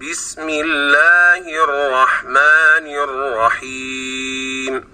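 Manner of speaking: slow intoned basmala; Quranic recitation. Shown as a demonstration. Teacher reciting the basmala as a model in slow recitation. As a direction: chant the basmala slowly, each vowel clear. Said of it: "الكسرات التي ذكرناها".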